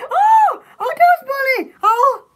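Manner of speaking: high startled yelp of surprise; sudden surprised cry. Real, not acted. Surprised by purple sock.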